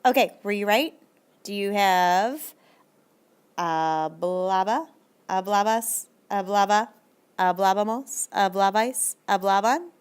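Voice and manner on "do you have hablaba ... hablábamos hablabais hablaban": slow drawn-out check. Shown as a demonstration. Teacher checks answers slowly.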